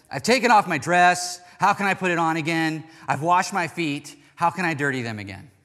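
put-upon wife's complaint; wife's indignant reaction. Retold or imitated. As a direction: act out an exasperated refusal, easing off at the end. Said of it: "she reacts like this".

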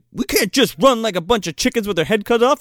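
high-pitched reenacted objection; hammed-up urgent refusal; mock protest. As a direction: argue against fleeing in a put-on voice. Acting out argument over fleeing.

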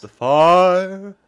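"fire" as one long posh syllable, loud; "fire" drawn out as a single posh vowel. Shown as a demonstration. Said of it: "they say it like that".

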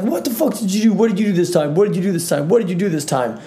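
high, hammed-up tearful pleading; mock-cry the same question over and over; imitating sobbing mom. Mom at dawn asking her son, in mock tearful sobs.

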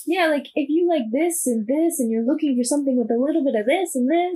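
high, fast pitch to followers; marketing voice. Shown as a demonstration. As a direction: sell it like a BookTok promo. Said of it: "that's my marketing voice".

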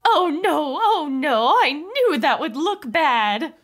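high, slow fretful alien; lightly voiced alien wife. Mrs Person put-on voice.

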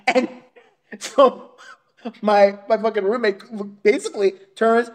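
ordinary delivery

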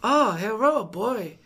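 hammed-up mock Asian accent; exaggerated Asian accent. Imitating the store clerk greeting him, mock Asian accent. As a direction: push the put-on Asian accent further. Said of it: "You went more Asian".

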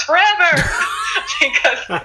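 laughing through the words; chuckling while making the point. Real, not acted. Guest laughing to host about slimming clubs.

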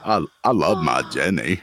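lightly voiced simple, devoted sweetheart; a hint of an earnest movie character; Forrest Gump. Declaring love for Jenny, lightly imitated movie character. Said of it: "talking in my Forrest Gump voice".

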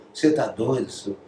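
a hint of a Minas Gerais accent; light Minas Gerais accent. Rubinho doubting the singer, in a light Minas Gerais accent. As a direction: mildly imitate the drummer's Minas Gerais accent. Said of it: "O sotaque mineiro".

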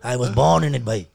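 put-on Indian-accented villain parody; Bane. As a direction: play a comic villain with an Indian twist. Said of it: "You do your Bane voice now?".

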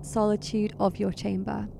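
measured, atmospheric narration; suspenseful storyteller delivery; game master's scene setting. A narrator's reading. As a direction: narrate a foreboding dream with deliberate pauses. Game master sets a dream scene.

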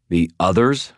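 mildly forceful question; pointed, questioning tone; demanding. Acted. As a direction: demand an explanation. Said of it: "I demanded".

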